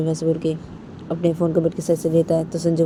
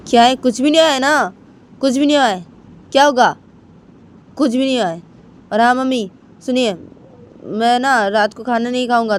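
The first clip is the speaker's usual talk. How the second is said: higher, louder irritated refusal; sulking and shutting mom out; angry son; 5 semitones higher, 5 dB louder than usual. Acted. Son angrily refusing dinner. (नाराज़ बेटे की ऊँची, तेज़ आवाज़)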